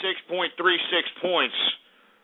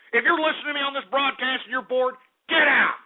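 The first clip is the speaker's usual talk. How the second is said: high, fed-up rant ending in a yell; angry dismissal; 6 semitones higher than usual. Real, not acted. Host ordering bored broadcast listeners away, angry. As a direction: build to a sharp high order.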